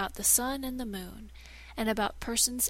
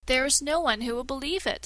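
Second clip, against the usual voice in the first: scornful dismissal; 4 semitones higher, 5 dB louder, faster than usual. Acted. Shadow dismisses threat.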